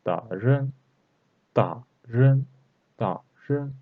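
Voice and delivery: "Da" falling, "ren" rising; fourth then second tone. Shown as a demonstration. Teacher models tones for learners, fourth then second tone. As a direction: drop "Da", then lift "ren" upward. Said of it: "Fourth tone and second tone".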